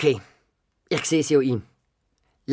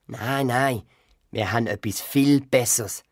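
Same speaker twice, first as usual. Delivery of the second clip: grandpa; 4 semitones lower than usual. Acted. Grandpa voiced in story.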